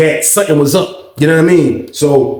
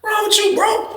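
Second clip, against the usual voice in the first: retold snap; 5 dB quieter than usual. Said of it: "I snapped".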